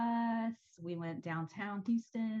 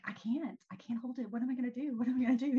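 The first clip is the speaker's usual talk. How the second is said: panicky, desperate to pee; frantic bladder emergency; needing the toilet; faster than usual. Retold or imitated. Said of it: "And I'm like".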